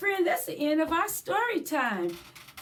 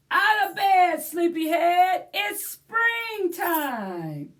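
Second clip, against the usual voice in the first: a lightly voiced bright wake-up call, louder; cheery wake-up call; 3 semitones higher, 5 dB louder than usual. Rabbit calling the bird awake, mild cheery shout.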